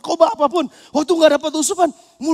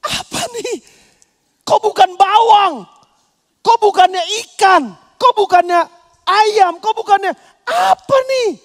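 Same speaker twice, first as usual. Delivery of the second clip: higher, slow mock whine; whining complaint; 5 semitones higher, 4 dB louder than usual. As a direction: sulk over each missing dish. Israelites complaining about manna.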